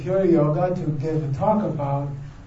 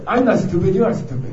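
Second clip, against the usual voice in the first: a louder, lightly acted retort; mock yelling back; 3 dB louder than usual. Employee talking back to the boss who yelled, mock yell. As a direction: fire it back like a mild comeback at a shouting boss. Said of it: "you yell back".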